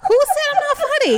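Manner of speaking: laughing, pitched well up in mock outrage; laughing protest. Real, not acted. Wife teased about not being funny, laughing in mock offence. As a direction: protest through real laughter, playfully hurt.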